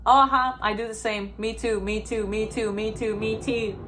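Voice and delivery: mocking a people-pleaser who agrees to everything; eager agreeing. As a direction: parrot agreement in a quick, repetitive singsong. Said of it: "he just agreed".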